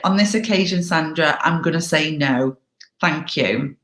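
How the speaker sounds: calm, matter-of-fact refusal; rational, not emotional. Shown as a demonstration. Turning down Sandra's PTA request, calm and unemotional. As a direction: say it evenly, then zip it. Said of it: "It's rational, not emotional".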